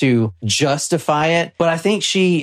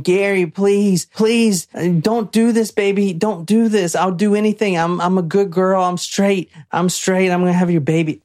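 imitating pleading; 5 semitones higher than usual. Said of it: "She's saying".

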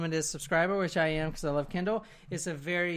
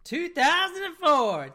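high, slow amazed repeat; stunned high echo; 12 semitones higher, 5 dB louder than usual. Real, not acted. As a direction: echo the answer in disbelief. Echoing correct guess in amazement.

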